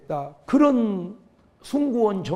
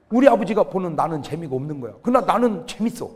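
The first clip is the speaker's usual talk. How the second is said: ordinary talk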